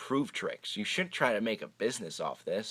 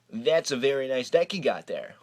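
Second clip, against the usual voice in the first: creepy; 3 semitones higher than usual. Pretend. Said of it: "Was that creepy enough?".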